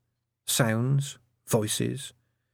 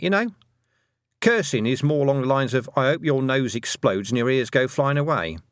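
prim schoolteacher voice; 3 semitones higher than usual. Acted. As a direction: explain it like a patient governess. Miss Tick lecturing Tiffany.

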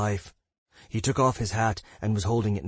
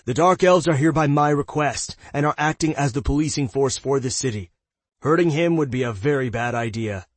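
louder, higher urgent explaining; urgent raised voice; 4 semitones higher, 4 dB louder than usual. Acted. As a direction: keep the alarm in the voice. Dale urgent after shouting.

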